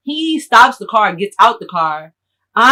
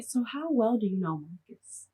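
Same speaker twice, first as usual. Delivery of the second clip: office lady; 13 dB quieter than usual. Retold or imitated. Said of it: "She gonna ask me".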